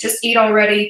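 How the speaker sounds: ordinary talk, nothing marked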